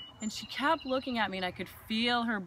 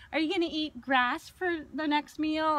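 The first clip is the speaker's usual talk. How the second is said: higher, louder sneering put-on voice for the rude lady; mocking lady; 7 semitones higher, 4 dB louder than usual. Woman mocks her vegetarian tablemate's meal, high sneering voice.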